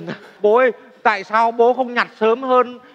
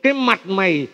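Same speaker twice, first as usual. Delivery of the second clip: scolding mother; 3 dB louder than usual. Retold or imitated. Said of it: "Mẹ hay mắng con là".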